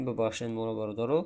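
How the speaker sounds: ordinary talk, nothing marked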